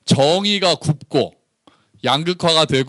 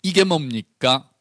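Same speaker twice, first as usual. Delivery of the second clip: complaining prophet; 5 semitones higher than usual. Retold or imitated. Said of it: "불평하면서". (하나님께 따지는 불평 어조)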